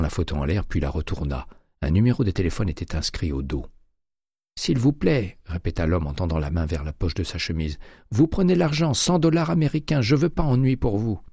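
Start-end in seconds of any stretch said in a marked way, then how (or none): 4.6-5.4 high, choked pleading voice; frightened clerk. A narrator's reading. Terrified clerk under McCaleb's arm, high and pleading. 8.1-11.2 high, choked pleading voice; frightened clerk. A narrator's reading. Terrified clerk under McCaleb's arm, high and pleading.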